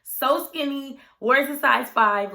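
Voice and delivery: amazed emphasis. Real, not acted. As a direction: marvel at how tiny she is.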